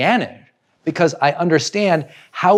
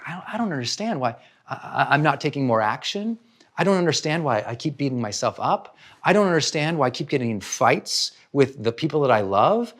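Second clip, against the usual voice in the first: much softer, puzzled and worn down; frustrated self-talk; 4 dB quieter than usual. Retold or imitated. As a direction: murmur it to yourself, confused.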